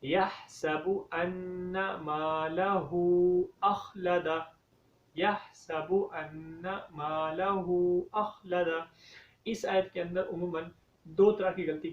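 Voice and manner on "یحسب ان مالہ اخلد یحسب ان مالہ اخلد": slow melodic tajweed recitation; Quran recitation. Shown as a demonstration. Teacher recites the verse for the class, slow chant. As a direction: chant it slowly and carefully.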